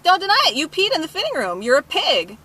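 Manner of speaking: indignant retelling of telling someone off; retold accusation. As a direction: fire the accusation at a culprit. Retold confrontation with the customer.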